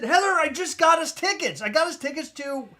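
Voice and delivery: telling Heather about the tickets; excited. Retold or imitated. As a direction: burst out with the news. Excited announcement.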